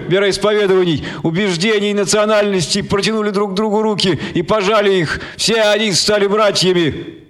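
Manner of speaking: high, rousing orator voice; preacher's speech. Acted. Martin Kenning addressing the crowd through stadium speakers, rousing. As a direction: preach to the masses, lifting each phrase.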